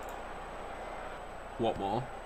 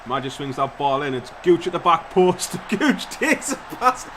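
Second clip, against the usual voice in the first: rising, louder play-by-play; excited commentary; 3 semitones higher, 6 dB louder than usual. Real, not acted. Calling the goal to his viewers, excited. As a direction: call the goal as it happens.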